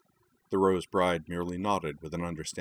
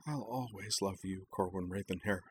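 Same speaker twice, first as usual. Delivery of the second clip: much softer, tender near-whisper; 9 dB quieter than usual. Acted. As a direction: breathe it close and tender. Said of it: "Utena whispered".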